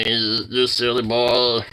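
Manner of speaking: slow stretched tender coo; drawn-out coo. Real, not acted. Owner slowly cooing at the pet. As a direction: linger on each word lovingly.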